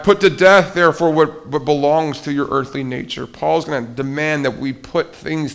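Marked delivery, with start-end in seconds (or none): 0.0-3.3 louder and higher, fierce scripture reading; forceful reading. Real, not acted. Preacher reading brutal verse to congregation, loud and fierce. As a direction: hit the verse hard like a blow.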